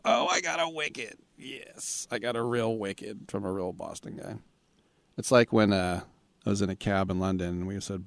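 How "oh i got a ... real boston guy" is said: delighted. Real, not acted. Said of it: "not really that wicked into it".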